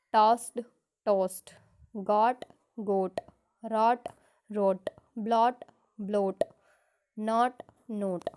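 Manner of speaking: loud, deliberate pairs contrasting open o and long o; minimal pair drill. Shown as a demonstration. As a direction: call out each word pair loudly for the class. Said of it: "read the following sets of words loudly and clearly".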